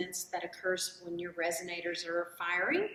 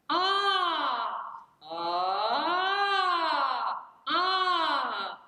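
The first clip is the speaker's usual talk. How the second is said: higher, louder throaty ahs; throaty mixed-voice "ah" sung higher; middle voice demo; 6 semitones higher, 5 dB louder, much slower than usual. Shown as a demonstration. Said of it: "a little more throaty".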